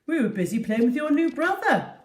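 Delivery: laughing through the words; laughingly. Acted. Dad teasing the dog about her new brother, laughing. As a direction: chuckle while teasing. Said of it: "Dad said laughingly".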